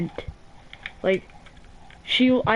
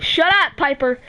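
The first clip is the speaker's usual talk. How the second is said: sharp shush at Piper; 4 semitones higher than usual. Real, not acted. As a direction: cut in to hush the person in the room. Snapping at someone nearby.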